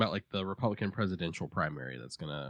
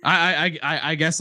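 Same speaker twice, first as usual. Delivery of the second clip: squeaky, high-pitched stammer; 11 semitones higher, 11 dB louder, much slower than usual. Real, not acted. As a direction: squeak out the words. Laughing high squeak at joke.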